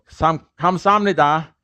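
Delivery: "kamsamnida" with no H, one merged A; A's run together. Shown as a demonstration. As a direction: glide straight through "sam" in "kamsamnida". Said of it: "run these two A's together".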